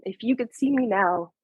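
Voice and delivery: choked up, fighting tears; words catching as she starts to cry; voice breaking. Real, not acted. Reading the eagle poem from her late mom, choking up.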